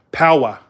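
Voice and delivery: "Power" with no final R; New England "Power", R dropped; Northern pronunciation. Retold or imitated. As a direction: say "Power" as "pow-uh". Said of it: "kind of accent is that".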